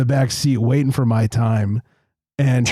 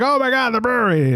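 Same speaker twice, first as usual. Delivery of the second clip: gushing fan; 10 semitones higher than usual. Retold or imitated. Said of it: "Everyone's like".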